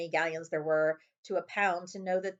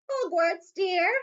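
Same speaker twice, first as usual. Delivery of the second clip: much higher, louder motherly witch voice; sweet witch voice; 12 semitones higher, 7 dB louder, much slower than usual. A narrator's reading. Madam Malkin greeting Harry in her shop, high sweet witch voice.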